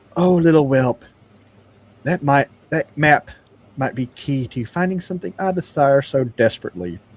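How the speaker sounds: small, faint, barely-there voice. Game master voicing an unseen speaker to the recovering player; faint little voice. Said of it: "you hear a faint little voice saying".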